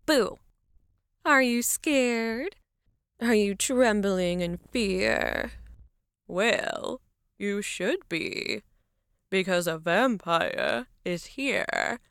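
slow, teasing vampire menace. Acted. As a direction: loom over him as a vampire. Dressed as vampire, scaring partner.

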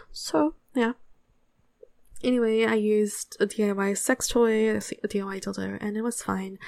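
put-on Australian accent through the whole story. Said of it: "so I'm gonna record in that".

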